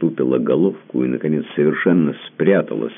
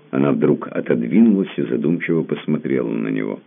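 ordinary delivery, nothing marked

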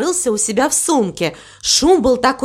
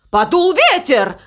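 high-pitched outcry; dismayed cry; 6 semitones higher than usual. A narrator's reading. Crow notices the wind rising, crying out. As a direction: cry out at the bad turn. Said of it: "закричал он".

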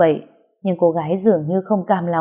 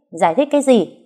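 scornful; 5 semitones higher than usual. Acted. Hồng scornful retort.

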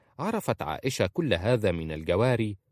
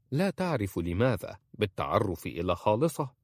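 ordinary delivery

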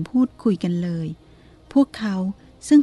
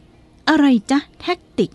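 higher, slow, baffled question; puzzled lady; 6 semitones higher, 4 dB louder, much slower than usual. A narrator's reading. Lady hears the cook's foreign word, higher and baffled. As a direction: ask the strange word back in disbelief.

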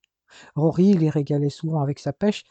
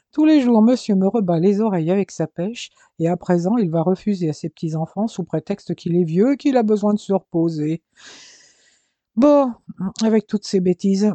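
mock indignation; 3 semitones higher, 4 dB louder than usual. Grandmother mock scolding grandfather.

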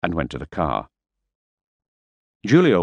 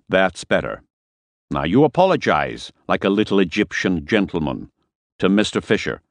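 menacing Harper; 3 semitones higher than usual. Acted. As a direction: threaten the driver, lightly voiced. Harper ordering an apology.

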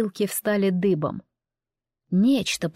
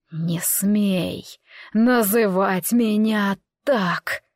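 dying rasp; much slower than usual. Acted. Dying lord rejects son.

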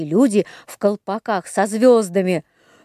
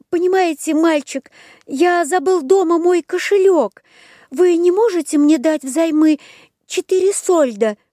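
put-on high pleading puppet boy; Buratino voice; 8 semitones higher than usual. A narrator's reading. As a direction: wheedle like a wooden boy. (голос Буратино)

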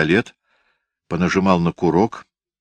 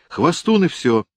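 put-on a small girl scolding her brother; 10 semitones higher than usual. Girl scolds Senechka, high girl voice.

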